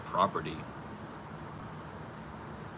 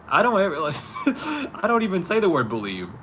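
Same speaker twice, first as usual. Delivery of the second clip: exasperated protest; 9 semitones higher, 5 dB louder than usual. Real, not acted. Arguing, exasperated at listener.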